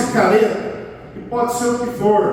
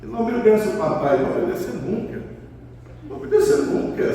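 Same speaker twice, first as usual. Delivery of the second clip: ineffectual parent. Shown as a demonstration. Father complaining to mother that the child won't obey, mock helpless. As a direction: imitate a powerless dad grumbling to mom. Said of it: "Você não pode falar com ele".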